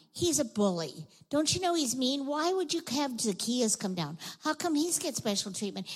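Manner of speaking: indignant complaining, rising in pitch; grumbling crowd. Acted. Townspeople objecting to special treatment, grumbling. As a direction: grumble in lively mock outrage. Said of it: "all the people started grumbling".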